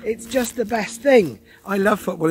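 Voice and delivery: high, loud indignant retort; loudly scandalised football fan; mock outrage. Playful outraged defence of football.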